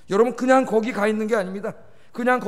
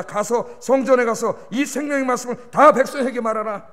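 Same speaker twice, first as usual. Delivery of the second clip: God commanding; 3 semitones higher, 5 dB louder than usual. Retold or imitated. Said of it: "하나님 말합니다".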